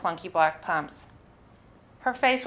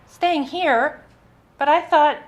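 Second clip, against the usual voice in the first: high, louder panicked protest; alarmed disbelief; 9 semitones higher, 6 dB louder, slower than usual. Retold or imitated. Tourist to the bus driver, panicked disbelief. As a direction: blurt it out, thrown and cut off mid-thought.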